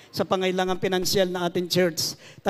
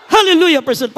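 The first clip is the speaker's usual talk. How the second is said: high, loud Hallelujah, dropping on Praise the Lord; congregational shout; 9 semitones higher, 11 dB louder, faster than usual. Real, not acted. Pastor leading the jumping congregation in three shouts, congregational shout. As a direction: shout Hallelujah at full voice to lead the crowd. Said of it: "sumigaw ng Hallelujah, praise the Lord tatlong beses".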